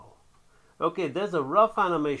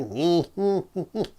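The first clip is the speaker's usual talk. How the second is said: mock cartoon laugh; 5 semitones higher, 3 dB louder than usual. Mock cartoon laugh before insult.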